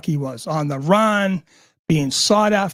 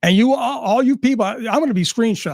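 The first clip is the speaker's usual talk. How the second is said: rising, heated call-out pitched higher; fed-up streamer snapping at his audience, pitched up; getting pissed off; 5 semitones higher than usual. Real, not acted. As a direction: let the anger climb as you call them all out. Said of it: "I'm getting a little pissed right now".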